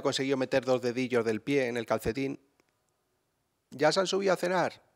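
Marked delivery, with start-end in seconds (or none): 3.7-4.8 higher, lightly voiced mother; mother telling her son the kids went up, mild call. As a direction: call him to dinner like mum. Quoting his mother at dinner.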